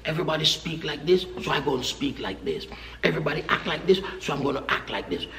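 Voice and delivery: mock teen voice. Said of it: "mocking young people's talk".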